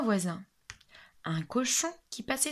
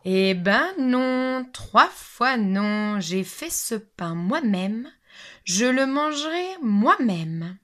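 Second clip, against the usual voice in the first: louder, very slow, emphatic no; firm refusal; 2 semitones higher, 5 dB louder, slower than usual. Acted. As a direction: deliver the verdict word by word. Hen refuses the lazy neighbours.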